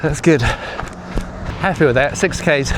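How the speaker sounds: talking mid-run, a little puffed; while running. Real, not acted. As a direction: speak between strides on a jog. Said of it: "let's see how many kilometers we've done".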